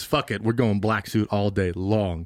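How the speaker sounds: low, slow, dark resolve; slow defiant drawl; mock edgy Peter; brooding Peter. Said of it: "Peter now says".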